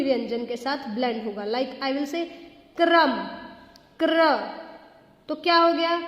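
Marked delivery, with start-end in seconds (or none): 2.8-3.1 क्रम with र straight after क, no vowel between; क्र blend. Shown as a demonstration. Teacher demonstrating the blend: क्रम, said clearly. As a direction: say क्रम with a tight kr start. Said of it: "रक नहीं आ रही".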